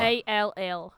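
"A L L" as separate letter names; spelling out. Shown as a demonstration. Correcting a mishearing, spelling "A L L".

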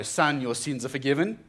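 firm, declaring voice with a rising end; powerful declaration. Retold or imitated. Jesus to the paralyzed man, firm declaration. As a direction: pronounce it like a decree. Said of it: "He's declaring something there really powerfully".

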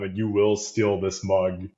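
slow, hypnotic Jedi command; Jedi mind trick voice. Pretend. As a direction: wave your hand and command it slowly. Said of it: "Jedi mind trick".

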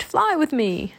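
high, inviting cry; croaked call. A narrator's reading. Teddy inviting the others to follow, croaked call. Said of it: "he croaked".

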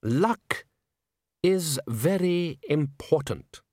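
strained, patient and long-suffering; pained patience. A narrator's reading. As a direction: speak with weary, pained patience. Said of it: "in a voice in which pained patience floated".

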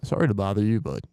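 lightly voiced embarrassed bathroom caller; distorted one. Shown as a demonstration. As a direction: rehearse the toilet-paper plea. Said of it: "the distorted one".

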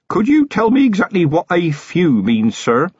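high, carefully worded anxious question; nervous young constable. A narrator's reading. Feeney to Vimes about a few goblins, nervous. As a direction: ask warily in a high-pitched voice.

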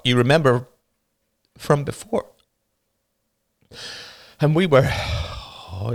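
put-on a young boy fighting back sobs, laughing bitterly; tearful boy. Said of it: "The younger boy burst into tears".

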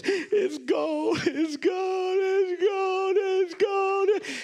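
imitated high, repeated scream of testimony; screaming for joy. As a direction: cry it out over and over, high and unbroken. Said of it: "She's screaming to the top of her voice".

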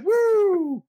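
long, very high mock whoop; imitated cheering whoop. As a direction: let out a hammed-up party woo. Imitated cheer over beer.

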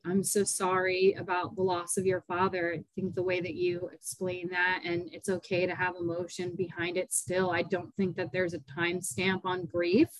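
soft, sincere sympathy; softly reassuring someone in grief; gentle condolence. Real, not acted. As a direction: console them quietly. Host consoles tearful guest over loss.

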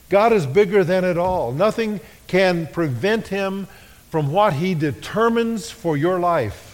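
rising preaching. Acted. Preaching climax.

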